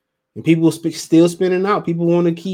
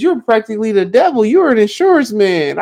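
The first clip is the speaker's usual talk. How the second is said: pitched up over four semitones, mock-outraged movie quote; quoting the movie; 7 semitones higher, 4 dB louder than usual. Streamer quoting a movie line to his viewers, pitched-up mock outrage. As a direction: play the movie character calling him the devil. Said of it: "he says".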